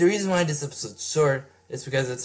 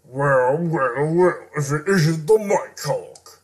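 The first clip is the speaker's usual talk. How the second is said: sly villain taunt; slower than usual. Acted.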